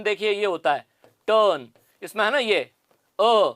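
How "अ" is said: अ held long, as in bird; long vowel. Shown as a demonstration. Teacher isolates the sound in turn, long vowel अ. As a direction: draw out अ as one long vowel. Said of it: "long vowel".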